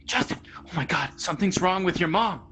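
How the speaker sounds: high, urgent fake panic; dad pranking his son, faking alarm about mom; mock alarmed dad. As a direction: pretend something terrible happened. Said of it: "and he's like".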